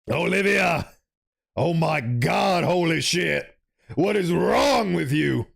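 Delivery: stunned, drawn out, holy-shit disbelief; shocked outburst. Acted. Friend reacting to Olivia's cruel jab, shocked outburst.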